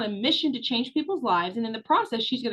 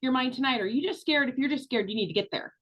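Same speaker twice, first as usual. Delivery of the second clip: tenacious pushback; faster than usual. Retold or imitated. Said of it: "Tenacious Tammy would be like".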